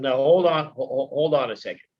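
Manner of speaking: rich, deep, commanding radio-man baritone. Retelling how his granddad stopped everyone, imitating a deep, commanding baritone. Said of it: "deep baritone, commanding voice".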